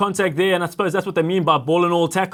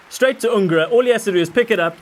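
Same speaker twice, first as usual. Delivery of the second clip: building excited commentary, louder toward the try; mock play-by-play; 2 semitones higher, 3 dB louder than usual. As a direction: call the fake match like a live commentator.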